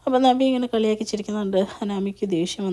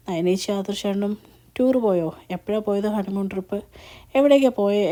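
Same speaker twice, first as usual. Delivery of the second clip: cheerful curiosity building up; happy eager questions. Retold or imitated. Nandu eagerly asking her sister about the honeymoon trip, mildly excited. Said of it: "ഭയങ്കര സന്തോഷത്തോടുകൂടി ചോദിക്കും".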